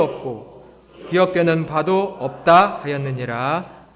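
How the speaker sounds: loud, slow, measured reading; solemn declamation, phrase by phrase; scripture recitation. Real, not acted. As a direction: lead the congregation in reading aloud. Leads scripture reading aloud.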